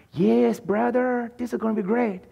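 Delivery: a light imitation of a Hispanic American friend; Hispanic American accent mimic. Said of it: "not a good mimic of Hispanic".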